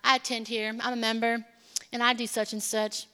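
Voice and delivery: low, fast scoffing bystander voice; mocking church sitter. Preacher mimics a judgmental churchgoer, low and fast. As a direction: sneer at the excited crowd from the sidelines. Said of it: "They're like".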